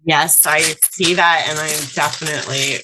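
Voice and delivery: talking while crunching food. Real, not acted. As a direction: mouth full of crunchy snack. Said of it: "sorry for all the crunching".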